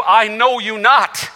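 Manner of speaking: slow, measured words from the text; slow scripture reading. Shown as a demonstration. Preacher reading Christ's words to the congregation, slow and measured. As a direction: read it slowly, like scripture aloud. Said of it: "It's the same words".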